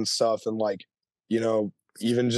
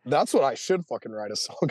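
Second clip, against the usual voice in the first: laughing; faster than usual. Real, not acted. Laughing at own story.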